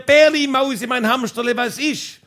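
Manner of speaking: mock shout up to the roof; wife calling back. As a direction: call up the pet names, fading at the end. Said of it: "Und sie hat zurückgeschrien".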